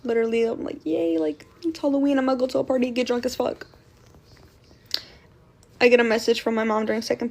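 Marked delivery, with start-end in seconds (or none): 0.8-3.7 mock giddy party plans, bubbling at the start; retold excitement. Teen tells viewers how Halloween hyped her up, mock excited. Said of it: "Super excited to go out".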